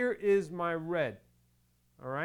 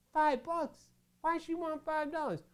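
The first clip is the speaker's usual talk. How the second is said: disbelief; 12 semitones higher than usual. Real, not acted. Dad outraged by request.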